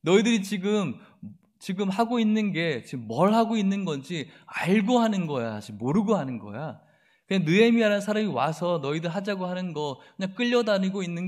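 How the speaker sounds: sneering, belittling questions; mocking taunt. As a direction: ridicule them as if they're fools. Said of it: "라고 지금 이야기하는 거예요".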